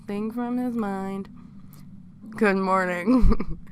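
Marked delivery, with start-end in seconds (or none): 2.3-3.6 loud, slow good morning; slow, hammed-up captor hello; mock-sweet captor greeting. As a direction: draw out the greeting to the captive. Captor greets captive in story.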